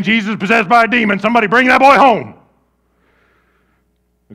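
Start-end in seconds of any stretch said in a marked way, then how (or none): 0.0-2.3 gossiping crowd. Retold or imitated. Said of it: "People going around saying".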